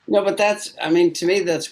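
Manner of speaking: high laughing voice. Real, not acted. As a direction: talk through the laugh. Laughing after joke.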